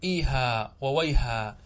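إيها وويها slowly, ending in a long aa; pausal alif. Shown as a demonstration. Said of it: "كيف تقف على إيها وويها".

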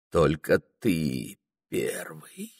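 slow, breath-only whisper; intimate whisper. A narrator's reading. Анфиса offering herself to Прохор, intimate whisper. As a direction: whisper it slowly to a lover.

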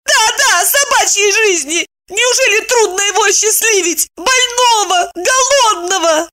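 high weeping woman; tearful insistence. A narrator's reading. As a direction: throw his word back through tears. Wife crying, insisting.

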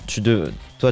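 ordinary delivery

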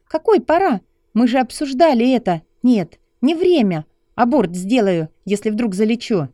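high, loud angry female voice; a girlfriend yelling at him in outrage; furious young woman. Acted. Narrator voices Lucy arguing.

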